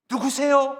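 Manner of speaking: high, loud urgent question; acted survivor's shout to a stranger; calling out. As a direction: call out to find who is there. Trapped survivor calls to rescuer.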